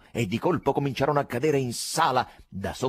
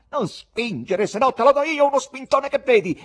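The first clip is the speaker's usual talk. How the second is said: higher, loud menacing shout; angry threat; 14 semitones higher, 6 dB louder than usual. Acted. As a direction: threaten to shove back. Spectator threatens another.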